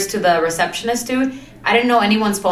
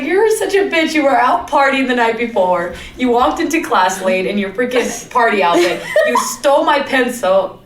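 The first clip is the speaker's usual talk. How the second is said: mock angry friend; 4 semitones higher than usual. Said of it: "she's like".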